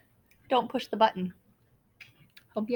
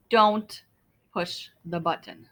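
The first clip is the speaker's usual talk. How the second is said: Don't hit hard, push the button falling low; warning; 4 semitones lower, 4 dB louder, slower than usual. Acted. Larry warns the reader sternly, Don't stressed. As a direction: punch Don't loud then drop low.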